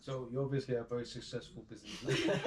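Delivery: trying to stay straight but laughing; smile-broken question; laughing through it. Real, not acted. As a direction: question cut with giggles. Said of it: "I don't know why I laugh".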